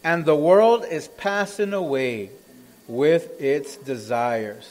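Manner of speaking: slow, weighty verse reading; emphatic scripture reading. Acted. Preacher reading the closing verse, slow and solemn. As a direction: read it slowly, sinking at the end.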